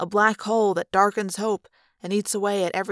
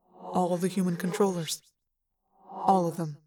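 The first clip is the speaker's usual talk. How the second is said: sober, even mind-voice with reverb; measured, falling alien delivery; echoing alien voice. A narrator's reading. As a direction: state the grim fact in an echo. Ax's echoing character voice.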